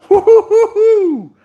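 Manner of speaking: high, loud, drawn-out whoop; gleeful string of high hoots; excited whooping. Real, not acted. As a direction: hoot with delight at the result. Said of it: "Sorry for the, the sound effects".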